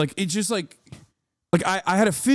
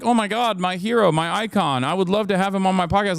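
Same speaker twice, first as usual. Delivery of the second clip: mock fanboy gush. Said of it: "And I'm just like".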